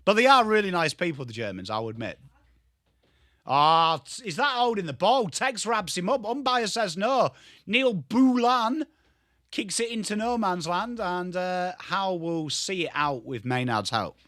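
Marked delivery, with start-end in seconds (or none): 3.5-14.2 play-by-play commentary. Acted. Streamer calling the footy match for viewers, play-by-play commentary.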